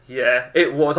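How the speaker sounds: low, softened sheepish admission; retold embarrassment. Telling a stranger it was him, embarrassed. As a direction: own up sheepishly, pitch dropped. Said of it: "I was really embarrassed".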